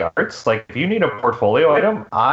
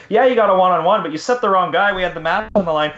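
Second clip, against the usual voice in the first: emotional rant at the setter; 5 semitones higher than usual. Retold or imitated. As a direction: relive the frustration at the setter, hotly. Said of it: "I'm getting emotional".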